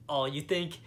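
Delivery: sassy mock rebuke, climbing to a loud, high finish; defiant boast, rising to a shout; mock Eleanor. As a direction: play the rich mother-in-law putting the clerk in his place. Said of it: "she's like".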